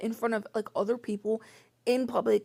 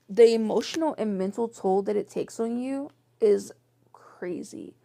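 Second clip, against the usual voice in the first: breathy whispered emphasis; 3 dB louder than usual. Real, not acted. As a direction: drop to a whisper to stress it.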